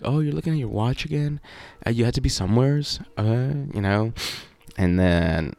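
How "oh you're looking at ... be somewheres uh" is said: higher, quicker nagging girlfriend impression; mock girlfriend voice. Girlfriend teasing him about checking his watch, mock nagging. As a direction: tease him like a suspicious girlfriend. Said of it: "And she's like".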